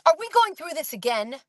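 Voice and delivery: a touch of impatient sarcasm; lightly imitated exasperation; exasperated witness. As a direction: retell her annoyed comeback lightly. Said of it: "She said it just like that".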